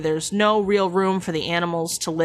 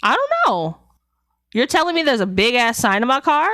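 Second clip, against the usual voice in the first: higher, hammed-up I don't know; feigned innocence; 4 semitones higher, 3 dB louder than usual. Telling the friend how to act clueless about the sign, hammy innocence. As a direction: play it up as a shocked innocent. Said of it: "you just gotta be like".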